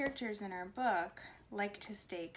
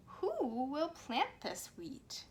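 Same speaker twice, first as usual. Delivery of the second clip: hen crying out; 6 semitones higher, slower than usual. Acted. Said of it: "cried the little red hen".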